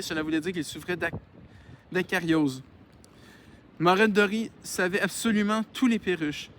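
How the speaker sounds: measured read-aloud voice; story narration. Acted. Reads a novel aloud.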